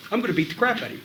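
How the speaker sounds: flat, straightforward threat without variation; monotone promo. Shown as a demonstration. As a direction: read it dead flat, no color.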